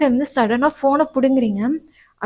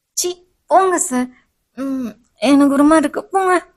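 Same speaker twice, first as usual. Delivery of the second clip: coy, embarrassed brush-off; shy; 2 semitones higher, 5 dB louder than usual. Acted. Student bashfully brushing off the professor's I love you. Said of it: "வெக்கப்பட்டுட்டு ஓடிடுறீங்க".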